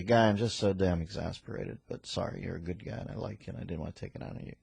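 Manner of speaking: mumbled sorry to a colleague; mock apology. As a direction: apologize under your breath. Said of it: "I'll just say".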